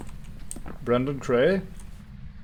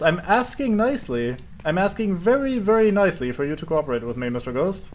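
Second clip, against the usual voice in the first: calm turning angry; 5 semitones higher than usual. Acted. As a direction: ask nicely through building irritation. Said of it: "Antagonizing the ghost".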